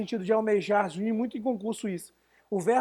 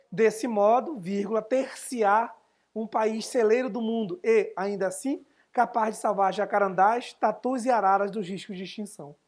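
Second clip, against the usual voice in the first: formal essay read. Shown as a demonstration. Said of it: "usem mesóclise e veja se ficou ruim".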